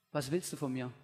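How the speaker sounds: quiet, low, gentle question; soft question. Acted. Jesus quietly asks the blind man what he wants. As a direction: ask it softly, leaning close. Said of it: "Jesus fragt".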